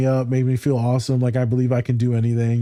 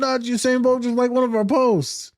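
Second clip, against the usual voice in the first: high-pitched amazed gush; thrilled, high and breaking big news; excited reaction; 11 semitones higher than usual. Retold or imitated. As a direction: gush like a starstruck fan.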